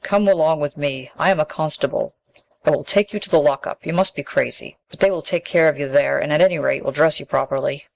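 hint of a cross village constable; gruff constable. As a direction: talk down to her like a stern policeman.

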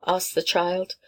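ordinary delivery, nothing marked

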